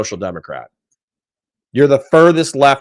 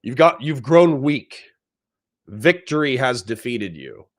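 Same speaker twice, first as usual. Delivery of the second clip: mock villain taunt; 2 semitones higher than usual. Streamer taunting chat in a lightly hammed villain voice. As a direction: taunt them like a movie villain.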